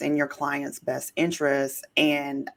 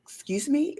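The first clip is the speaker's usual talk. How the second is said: offended disbelief; 9 semitones higher than usual. Retold or imitated. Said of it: "And I was like".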